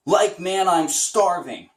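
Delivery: first step up toward Shaggy, drawn out. Shown as a demonstration. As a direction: nudge the pitch up a little. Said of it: "see how high your voice can go".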